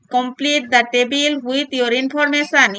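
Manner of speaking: very slow, word by word; slow dictation. Shown as a demonstration. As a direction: read it out slowly for the class. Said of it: "reads instruction slowly".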